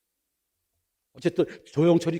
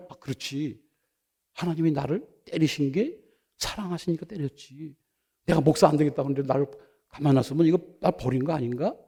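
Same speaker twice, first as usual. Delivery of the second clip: inner thought; 5 dB quieter than usual. Retold or imitated. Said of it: "이런 생각이 들면서".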